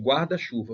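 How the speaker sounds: "guarda-chuva" with both GUAR and CHU stressed; duas sílabas tônicas. Shown as a demonstration. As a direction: give "guarda-chuva" two beats, GUARda-CHUva. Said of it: "duas sílabas tônicas". ("guarda-chuva" com acento em GUAR e em CHU)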